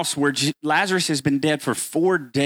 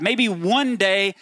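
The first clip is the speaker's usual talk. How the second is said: wistful hoping; 6 semitones higher than usual. Retold or imitated. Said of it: "that's how you've thought about God".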